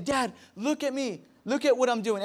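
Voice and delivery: a hint of an eager kid's plea; child calling dad. Children seeking a father's approval, lightly voiced child. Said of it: "why you see children saying".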